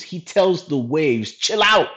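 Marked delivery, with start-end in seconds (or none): 1.3-1.9 higher, louder command in short separate bursts; firm rebuke. Retold or imitated. Jesus commanding the wind and waves, firm raised rebuke. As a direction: order it to settle, pausing after each command. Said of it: "he rebukes the wind and the waves".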